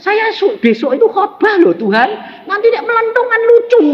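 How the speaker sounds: very high, hammed-up pleading; whining protest. Preacher begging God before tomorrow's sermon, comic high whine.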